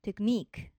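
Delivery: テクニック with ニック stressed as a long "neek"; stress on final syllable. Shown as a demonstration. Teacher giving an example of the rule, テクニック stressed on ニ. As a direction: hit the ニ in テクニック. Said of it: "最初のEにアクセントがあります".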